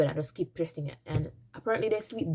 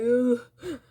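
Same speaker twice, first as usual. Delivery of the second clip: high, louder patois lament; Jamaican patois; 7 semitones higher, 6 dB louder, slower than usual. Retold or imitated. Crying to herself in Jamaican patois about her mother's warning. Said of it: "I start talking patois".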